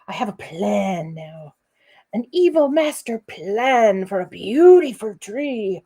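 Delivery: mock sinister master plan; scary voice. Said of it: "I never get to do my scary voice".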